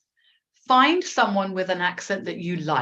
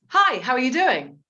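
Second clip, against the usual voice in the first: clear, higher model phrase for learners; mirroring model; 4 semitones higher than usual. Shown as a demonstration. Teacher repeats the greeting for students to mirror, clear demonstration. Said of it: "let's try a little bit of mirroring".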